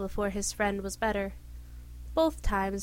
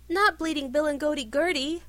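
louder, higher scandalized cry; 5 semitones higher, 5 dB louder than usual. A narrator's reading. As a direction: gasp it out in shock. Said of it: "exclaimed Sir Gareth, scandalized".

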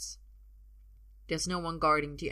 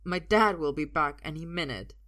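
shaky; 6 dB louder than usual. Acted. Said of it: "he says shakily".

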